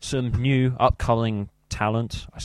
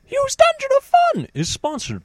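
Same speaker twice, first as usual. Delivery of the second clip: announcer; 4 semitones higher than usual. Acted. Sponsor read with high shout.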